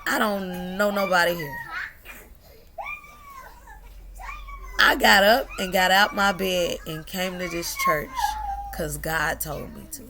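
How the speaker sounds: rising preacher's cry; preacher quote. Retold or imitated. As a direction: call it out like a preacher moved to tears. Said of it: "she said".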